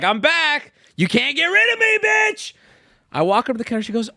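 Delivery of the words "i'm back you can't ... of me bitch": high, gloating tease; taunting sing-song. Retold or imitated. Back at the store taunting the clerk, gloating sing-song. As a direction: rub it in like a cocky villain. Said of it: "I hit him with these".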